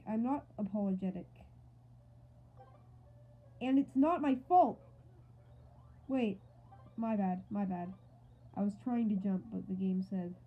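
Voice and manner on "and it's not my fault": mock angry retort. Arguing back as Mario.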